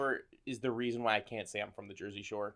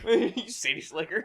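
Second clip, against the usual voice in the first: put-on Southern accent; 6 semitones higher, slower than usual. Echoes the mock Southern jeer.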